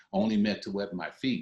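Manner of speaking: normal talking voice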